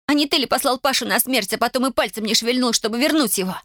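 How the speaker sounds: high-pitched, indignant reproach; squealed accusation. A narrator's reading. Daughter blames father for Pasha's death, high and indignant. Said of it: "взвизгнула она".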